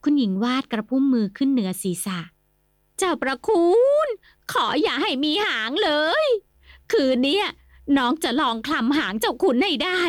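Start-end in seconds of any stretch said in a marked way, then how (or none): 2.6-10.0 frightened prayer. Acted. Frightened wife prays her husband has no tail. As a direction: beg the spirits anxiously.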